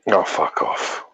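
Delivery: breathy, half-whispered fuck off; exasperated mutter. Real, not acted. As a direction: groan it under your breath in dismay. Real reaction to low stock news.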